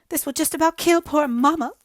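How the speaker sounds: high, loud tearful wail; a girl sobbing over her mother. Acted. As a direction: wail it through sobs. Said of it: "sobbed Hazel".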